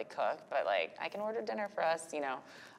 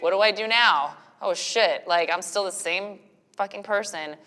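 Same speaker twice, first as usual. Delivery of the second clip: louder, higher, flustered new-mom alarm; mock panic; 4 semitones higher, 8 dB louder than usual. New mom realizing she hasn't changed, mock panic. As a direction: blurt it out in comic dismay.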